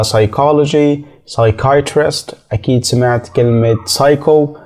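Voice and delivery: slow "psychology", "psychiatrist", "psycho", each starting on an s; silent P. Shown as a demonstration. Teacher giving examples to learners, "psychology", "psychiatrist", "psycho" without the p. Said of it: "مش بننطق حرف ال P فيها".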